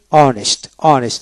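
অনেস্ট opening straight on the vowel; silent H. Shown as a demonstration. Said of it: "এইচ উচ্চারণ হবে না".

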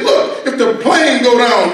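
high, slow, stretched-out mock insistence; emphatic insistence. Husband repeating himself to his wife, slow high mock insistence.

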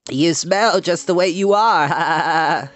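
mocking lamb voice, stretched out; jeering lamb. A narrator's reading. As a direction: sneer it slowly, voice lifted. Lamb jeers at Wilbur's smell.

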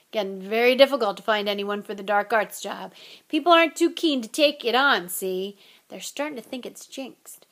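rough gamekeeper voice; a hint of a big gruff giant; Hagrid voice. Hagrid's voice in the story.

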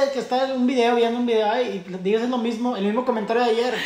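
retold complaint. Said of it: "Así le digo".

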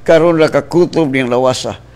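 passionate preacher's prayer, surging at the praises; fervent prayer. Acted. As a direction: pray aloud for the listeners. Leads a prayer.

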